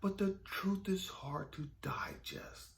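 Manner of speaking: slow, softened pronouncement; quiet, drawn-out truth; God. Retold or imitated. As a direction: let the words sink in slowly, dropping to a hush. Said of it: "He said".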